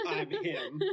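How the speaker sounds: Gen Z Harry with a laugh; laughing mock-casual quote; laughing through it. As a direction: chuckle out the line. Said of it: "New Gen Z translation of Harry Potter".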